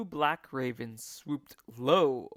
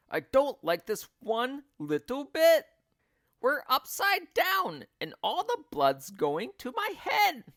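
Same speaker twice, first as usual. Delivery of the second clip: put-on much higher, louder frightened old woman; screaming; 11 semitones higher, 6 dB louder than usual. A narrator's reading. Missus Twit screaming about the blood in her head. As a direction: scream in distress. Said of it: "screamed Missus Twit".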